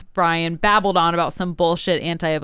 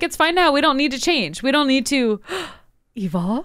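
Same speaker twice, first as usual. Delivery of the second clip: higher, singsong mock of smug officials; mocking complacent voice; 5 semitones higher than usual. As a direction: ham up the smug denial. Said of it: "And we're like".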